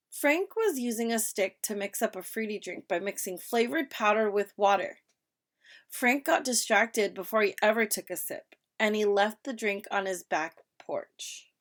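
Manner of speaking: expressive read-aloud for pupils; reading with intonation. Shown as a demonstration. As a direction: read it aloud with ups and downs. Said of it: "we're using intonation".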